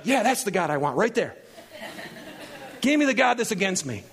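laughing mock Ruth. Pastor joking as Ruth about Naomi's God, laughing. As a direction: chuckle through the words.

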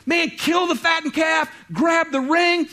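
loud, high, jubilant calling out; a father calling out to servants for a feast; joyful father shouting. Acted. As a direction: shout the orders for the party. Father shouting orders in parable.

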